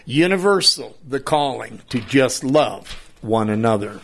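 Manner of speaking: poem recital. Acted. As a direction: recite it like a hymn. Reads own poem aloud.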